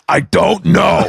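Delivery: slow, called-out imitation of a friend; Brian Half. Friend has no excuse for his family, slow impression. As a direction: stretch it out in the buddy's put-on voice. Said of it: "He goes like this".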